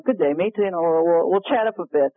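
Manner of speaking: light mock Australian accent. John inviting her to meet up, in a light Australian accent. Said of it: "I go into the accent".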